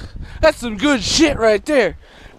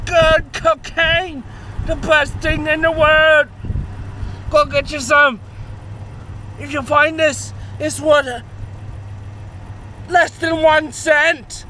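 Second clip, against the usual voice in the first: excited put-on Australian accent, pitched up; hammed-up Australian announcer of a lucky find; 3 semitones higher than usual. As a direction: crow about a jackpot in mock Australian. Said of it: "still fucking talking in a fucking Australian accent".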